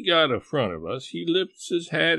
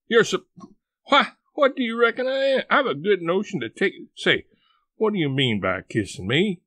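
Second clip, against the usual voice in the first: high, loud outraged sputter; 7 semitones higher, 4 dB louder than usual. A narrator's reading. Aunt Sally outraged.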